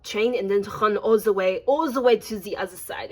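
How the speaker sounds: lightly imitated French accent; French-accented conductor giving instructions; French conductor's accent. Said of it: "There was this French milf train conductor".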